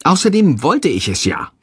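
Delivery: high, exasperated quarrel voice; distressed, high-pitched reproach; desperate scolding. A narrator's reading. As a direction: argue back with rising pitch. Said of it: "schimpft Freier verzweifelt".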